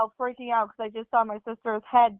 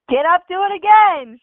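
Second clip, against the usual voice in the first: tough mom; 7 semitones higher, 7 dB louder than usual. Retold or imitated. Mom demanding, laughing retelling.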